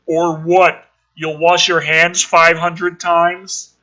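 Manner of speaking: slow sneering jab; mild mocking taunt. Bully mocks Rory's handwashing. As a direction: sneer it out slowly.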